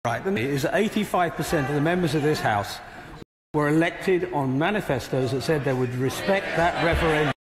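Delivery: strained hoarse voice; speaking through a hoarse throat. Real, not acted. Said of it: "he's got trouble with his voice".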